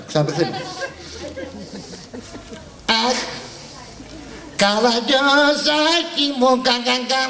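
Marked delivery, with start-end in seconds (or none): 2.8-7.2 high, slow wail breaking into sobs; hammed-up sobbing lament. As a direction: drag out the cry then sob. Mock lament, stuttering sobs. (θεατρικό, αργό κλάμα με λυγμούς)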